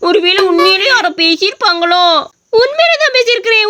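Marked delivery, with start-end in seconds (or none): 2.6-3.7 high spooky ghost insisting. Acted. Ghost answers the question.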